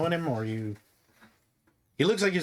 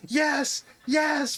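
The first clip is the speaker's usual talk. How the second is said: hyping the crowd; 12 semitones higher than usual. Acted.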